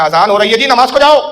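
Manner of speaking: mild mock shout, rising at the end; retold angry shout. Master orders lingering followers to prayer, retold angry shout. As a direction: imitate an angry order, building toward the last words. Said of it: "آپ نے پھر جلال میں فرمایا".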